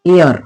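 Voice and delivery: एअर said clearly, ए gliding to अ; model word. Shown as a demonstration. Teacher models the example word for students. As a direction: say एअर slowly for the class. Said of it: "example पहिलं बघा".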